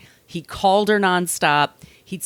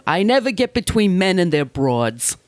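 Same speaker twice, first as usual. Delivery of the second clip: Mickey Cohen; 2 semitones higher than usual. Retold or imitated. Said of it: "Mickey Cohen told him".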